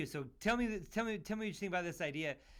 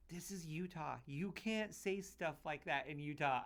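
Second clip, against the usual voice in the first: lightly voiced manager, slow admonishment; manager's reprimand; 5 dB quieter, slower than usual. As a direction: imitate a manager's understated, slower telling-off. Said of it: "my manager had to bring me".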